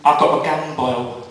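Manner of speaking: lightly acted sufferer, words dragged out; gum boil patient. Patient repeats after "What?.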